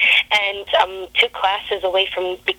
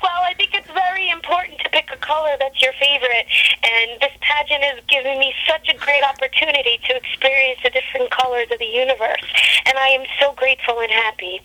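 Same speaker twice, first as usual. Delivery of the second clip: higher, sugary mock contestant; pageant contestant; 5 semitones higher than usual. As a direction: gush like a beauty queen. Parodies contestant's empty answer.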